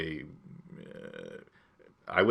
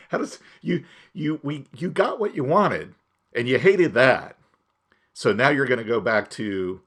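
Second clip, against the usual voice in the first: high-pitched, incredulous arguing back; exasperated retort; 6 semitones higher, 6 dB louder than usual. Retold or imitated. Podcaster argues back at fickle movie critics, exasperated.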